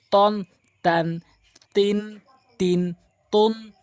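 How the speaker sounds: তন with rounded lips, তান with open mouth, slow. Shown as a demonstration. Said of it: "তটা মুখ গোল হবে".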